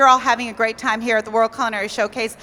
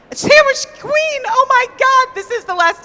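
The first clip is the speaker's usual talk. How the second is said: flustered slip; 12 semitones higher, 5 dB louder than usual. Real, not acted. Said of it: "Did I really just say that?".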